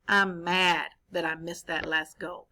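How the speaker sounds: low, disappointed reread; corrected reading. Shown as a demonstration. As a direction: reread it the right way, let down. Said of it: "I read that wrong".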